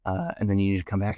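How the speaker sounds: fast, urgent instructions; intense busser. Retold or imitated. Busser urging the new applicant, fast and pressing. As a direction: rattle off orders like a pushy coworker. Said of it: "He got really intense all of a sudden".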